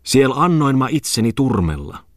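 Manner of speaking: high-pitched shrill chanting; shrill squeal. A narrator's reading. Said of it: "Oiva Tommola kiljui kimeästi".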